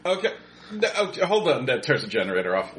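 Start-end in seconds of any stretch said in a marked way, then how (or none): 0.0-1.6 shouting over machinery. Acted. Shouting over generator noise.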